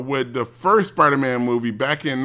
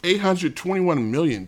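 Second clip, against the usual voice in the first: surprised; 5 semitones higher than usual. Real, not acted. Shocked at figure.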